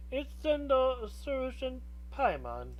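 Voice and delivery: a hint of an old lady voice; lightly voiced old woman; old hag. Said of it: "how did I do the old lady voice".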